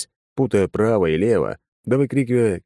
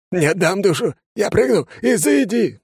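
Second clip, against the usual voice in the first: hysterical yell; 13 semitones higher, 3 dB louder than usual. Acted. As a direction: shriek in blind panic. Father at the window.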